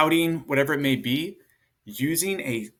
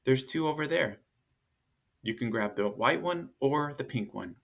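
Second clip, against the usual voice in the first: calm tone. Shown as a demonstration. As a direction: settle the kids down gently. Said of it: "We're just gonna use a calm tone of voice".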